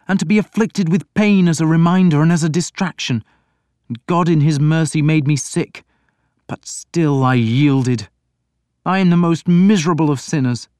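a troubled prince pleading; Alfred, anguished prince. A narrator's reading.

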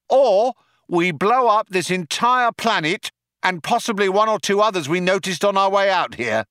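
high, projected ultimatum; earnest speechifying called across a distance; cop shouting terms. A narrator's reading. Cop gives the fugitives a choice, shouting. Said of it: "shouted the cop".

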